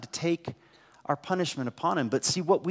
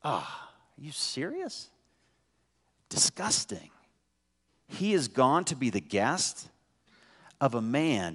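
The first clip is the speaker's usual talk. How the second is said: muttered, much softer disgust; grumbling crowd; 5 dB quieter than usual. Retold or imitated. Preacher voicing the crowd grumbling at Jesus, soft scornful mutter. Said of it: "they grumbled".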